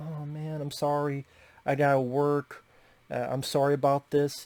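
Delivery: put-on apologetic voice. Retelling a movie scene where the mom takes a work call: imitating an apologetic mom. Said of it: "she's very apologetic".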